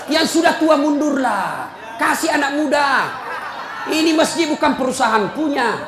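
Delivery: half-laughing, half-scolding sermon to the committee; preaching at full force. Acted. Rousing preacher's scolding. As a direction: pulpit voice lecturing mosque committee members on unused cash balances.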